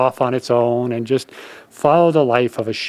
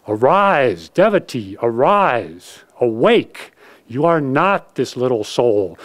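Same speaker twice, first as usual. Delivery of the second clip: rousing exhortation; 3 semitones higher than usual. Acted. Masters exhorting devotees.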